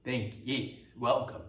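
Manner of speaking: put-on soft, halting foreign-accented thanks; a nodding dignitary in broken English, quiet and unsure; imitating broken English. Dignitary greeting visitor on the tarmac, soft broken-English thanks. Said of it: "broken English".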